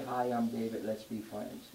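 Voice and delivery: quiet, low, lightly voiced friendly greeting; a hint of a shy friendly hello; mock friendly. Preacher mocking a timid David, soft and low. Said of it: "It wasn't time to say".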